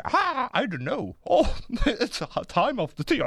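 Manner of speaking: a tipsy neuron with bad English; drunk English neuron. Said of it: "mi sembra un po' ubriaco".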